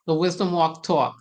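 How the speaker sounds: repeating the show name in a light Brooklyn accent. Shown as a demonstration. Host repeats the show name to viewers, Brooklyn accent. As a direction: lean a little on the Brooklyn vowels in Walk Talk. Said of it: "Did you just hear that Brooklyn accent?".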